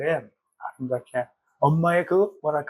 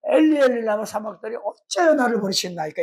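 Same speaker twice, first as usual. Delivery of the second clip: mildly plaintive retold outcry, starting high; sorrowful cry; 3 semitones higher than usual. Preacher voices Jesus forsaken by God, sorrowful cry. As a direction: imitate an anguished plea, falling away at the end. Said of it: "그게 너무 슬퍼가지고".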